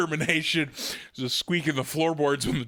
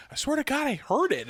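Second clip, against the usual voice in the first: retold insistence; 10 semitones higher than usual. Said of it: "we're standing down there like".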